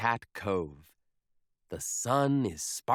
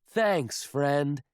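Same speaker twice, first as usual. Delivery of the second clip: louder call of thanks; grateful yell; 3 dB louder than usual. Acted. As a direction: shout thanks to the monster. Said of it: "yells Captain Pete".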